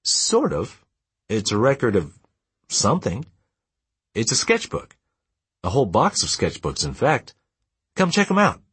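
excited discovery. A narrator's reading. Son excitedly showing his find.

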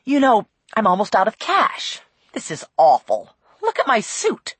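a hint of an aggrieved man listing his complaints; mildly exasperated detective voice; lightly voiced griping detective. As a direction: grumble through a string of grievances. Narrator plays complaining detective.

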